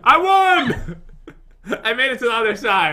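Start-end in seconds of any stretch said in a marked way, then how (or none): 0.0-1.0 high, excited triumphant call; gleeful victory cry. Real, not acted. Player beating the rival across the minefield, gleeful cry. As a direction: crow about winning.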